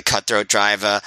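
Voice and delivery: New York accent slipping out, R dropped on "driver". Real, not acted. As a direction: say "driver" as "driv-ah", like a New Yorker. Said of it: "that's my New York coming out".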